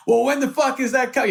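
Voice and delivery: high, impatient eager demand; very excited. Retold or imitated. Comedian impatient for the director's script, very excited. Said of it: "I started getting very excited".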